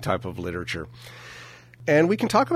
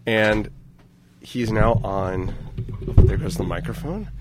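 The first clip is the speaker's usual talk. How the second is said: play-by-play commentary. Acted. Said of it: "This is very exciting play-by-play".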